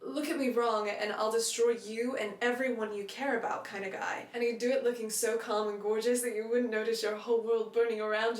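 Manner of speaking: light American accent for a book reading. Shown as a demonstration. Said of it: "I am gonna do an American accent for, uh, for these readings".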